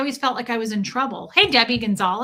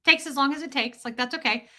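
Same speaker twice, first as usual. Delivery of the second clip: calm unbothered; 4 semitones higher than usual. Retold or imitated. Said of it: "I'm not going to accept that".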